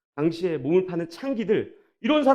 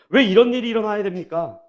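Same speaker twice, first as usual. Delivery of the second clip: raised, heated questions thrown at God; a mock angry complaint, higher and louder; angry protest; 4 semitones higher, 4 dB louder than usual. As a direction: protest like an indignant prophet. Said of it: "하나님께 막 화를 내는".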